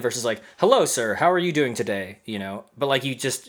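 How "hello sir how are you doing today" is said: polite, proper greeting to a superior; formal greeting. Retold or imitated. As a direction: greet him like a stiff boss. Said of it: "you feel that formality shift".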